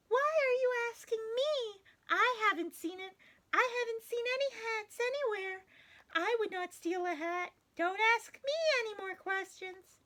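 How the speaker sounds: put-on reading aloud to children; story reading. A host reading a picture book to children. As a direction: read it gently to little ones.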